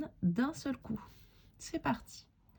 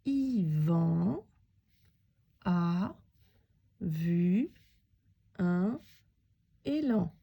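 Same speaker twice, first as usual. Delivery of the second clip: slow, each word alone with long pauses; word by word dictation; 3 semitones lower, much slower than usual. Shown as a demonstration. Teacher reading the sentence word by word with the pupil. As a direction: read it one word at a time, leaving gaps. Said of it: "Avec moi".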